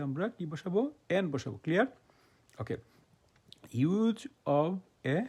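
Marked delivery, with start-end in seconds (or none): 3.7-5.2 drawn-out heading. Shown as a demonstration. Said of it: "announces new grammar topic".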